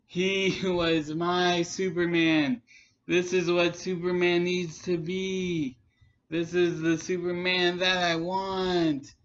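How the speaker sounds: light monotone, imitating; deadpan, even-toned monotone. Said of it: "giving this light monotone voice".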